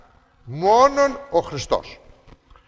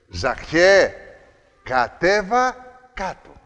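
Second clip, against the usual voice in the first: right call by name. Retold or imitated. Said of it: "Τι του είπε".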